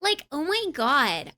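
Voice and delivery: put-on drawn-out Valley Girl inflections. Shown as a demonstration. Streamer showing chat a Valley Girl's inflections, joking Valley Girl drawl. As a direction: stretch it slowly like a Valley Girl. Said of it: "the inflections that a Valley Girl does".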